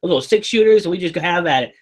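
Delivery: put-on Texan cowboy bragging, Texan accent; mock Texan accent. Joking about Texans to friends, mock Texan accent. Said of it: "here down in Texas".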